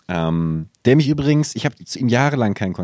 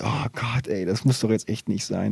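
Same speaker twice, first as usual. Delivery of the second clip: embarrassed murmur, softer; cringing mutter; 6 dB quieter than usual. Retold or imitated. Cringing thought.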